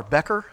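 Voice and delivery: BECKER with a short E, as in "deck", rising; tentative pronunciation. Shown as a demonstration. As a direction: ask "Becker?" with a short first vowel. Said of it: "ask how to pronounce his name".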